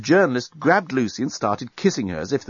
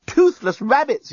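high, drawn-out yell of alarm; yelled curse; 14 semitones higher, 3 dB louder, slower than usual. A narrator's reading. Journalist hearing the bomb's countdown, yelling. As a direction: yell it as a panicked oath. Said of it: "yelled the journalist".

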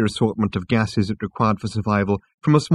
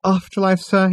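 higher, sarcastic waiter query; tight-lipped sarcasm; 9 semitones higher than usual. A narrator's reading. Waiter answering Arthur's silly question, sarcastic. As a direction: echo the word with pointed disbelief. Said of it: "tight-lipped and sarcastic little waiter".

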